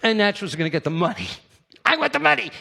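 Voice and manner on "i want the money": emphatic want. Acted. Greedy emphatic declaration.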